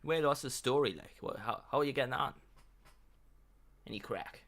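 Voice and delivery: put-on playful thick Irish accent. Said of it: "I would like a thick Irish accent".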